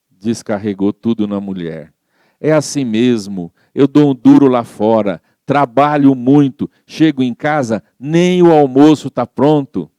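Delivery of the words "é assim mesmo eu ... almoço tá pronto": irritado reclamando. Retold or imitated. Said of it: "Irritado foi falando".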